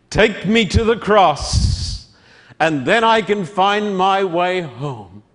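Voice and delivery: lightly voiced child asking to be led; lost little girl. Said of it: "and she said".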